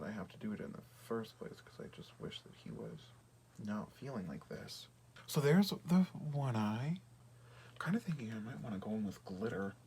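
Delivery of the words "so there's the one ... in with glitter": lightly put-on Fosse accent; weird Fosse accent. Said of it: "talking in this, like, weird Fosse accent".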